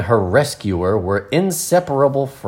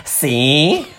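exclaim; 6 semitones higher than usual. Acted. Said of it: "exclaimed Marilyn".

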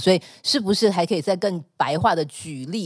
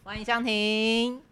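slow drawn-out welcome; 5 semitones higher, 4 dB quieter, much slower than usual. Real, not acted.

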